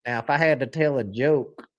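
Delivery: lightly put-on Texas accent; unconvincing Texas accent; bad Texas accent. Shown as a demonstration. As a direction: attempt a Texas twang, low. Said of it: "that's a bad Texas".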